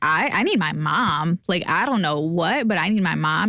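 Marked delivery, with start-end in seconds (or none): none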